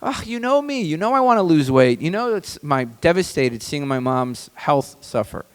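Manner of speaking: high, hammed-up gushing agreement; sarcastic falsetto thanks to the wife; mock grateful gush. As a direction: overdo the grateful response way up high. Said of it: "we should respond and say".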